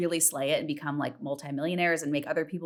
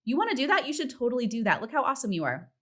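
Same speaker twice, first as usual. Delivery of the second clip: high-pitched, gushing hype for a friend; hype girl cheer; 8 semitones higher than usual. Retold or imitated. Hyping up a girlfriend, high and gushing. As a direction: cheer her on like her biggest fan.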